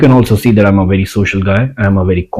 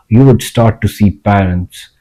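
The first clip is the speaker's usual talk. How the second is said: whisper. Acted. Dramatic aside about white girls' speech.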